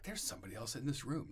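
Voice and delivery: a touch of retold alarm, rising at the end; "There's" lifted, as if sensing a presence; uneasy, half-hushed "There's somebody else in this room"; spooked, freaking out. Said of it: "I kinda started freaking out".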